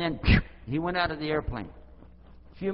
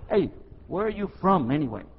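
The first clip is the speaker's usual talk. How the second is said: retold holler, a bit louder; 5 dB louder than usual. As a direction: call out a challenge, half-raised. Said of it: "I hollered at the guy".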